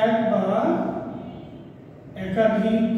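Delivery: dole it out phrase by phrase for note-takers; teacher dictating a definition, bit by bit; slow dictation. Real, not acted. Dictates definition for pupils to write.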